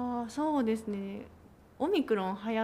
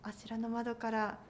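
campaign announcer voice; 4 dB quieter than usual. Retold or imitated. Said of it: "とかって、実際はいないんだけど".

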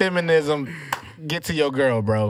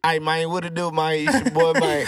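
put-on Houston accent. Showing off his Houston accent to the guests, lightly put on. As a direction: slide into a casual Houston accent, greeting the boys. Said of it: "I got that Houston accent out".

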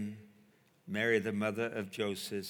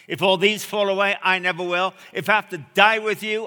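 bold vow; 8 semitones higher, 13 dB louder than usual. Retold or imitated. Peter's bold vow to Jesus.

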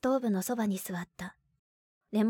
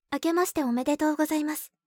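bright formal greeting; 5 semitones higher, 4 dB louder, faster than usual. Acted. Formal New Year greeting on phone.

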